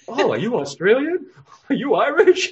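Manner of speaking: put-on high, loud, gushing guesses at an accent; excited questioning. Retelling eager questions to stranger.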